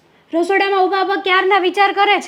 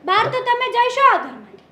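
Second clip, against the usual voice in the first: higher-pitched indignant retort; angry retort; 4 semitones higher than usual. Acted. Daughter tells the pair they can get out of the house, angry. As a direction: throw it back at them, voice raised in pitch.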